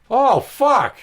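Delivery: loud, high sudden swear; acted-out alarmed expletive; retold pained curse. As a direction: cry out as if hurt. Retold reaction to back pinch.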